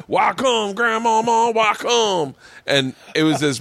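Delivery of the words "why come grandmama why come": put-on high pleading childish whine; high, whiny man-child pleading; whiny kid voice. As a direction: beg like a big kid caught out. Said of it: "And he's like".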